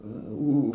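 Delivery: mock "uh" of an unamused audience; imitated disapproving crowd. Comedian retelling how the audience reacted to the joke, mock disapproving murmur. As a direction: imitate a crowd that has stopped laughing. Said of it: "como, no se estaba riendo".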